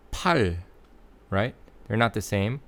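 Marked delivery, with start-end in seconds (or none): 0.1-0.6 팔 ending in a held L, tongue on the ridge; final Korean L. Shown as a demonstration. Teacher contrasting 팔 with 파리, held final L. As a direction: hold the tongue up at the end of 팔.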